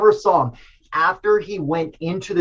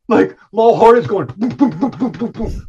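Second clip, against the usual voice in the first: heartbeat boom; 4 semitones higher, 3 dB louder than usual. Retold or imitated. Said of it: "like that".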